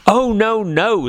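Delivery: high, timid little fly. Acted. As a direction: squeak out a nervous refusal. Fly refusing the spider.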